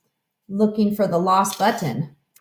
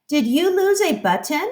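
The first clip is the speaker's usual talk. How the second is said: sparrow voice; 7 semitones higher, faster than usual. Acted. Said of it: "said the sparrow".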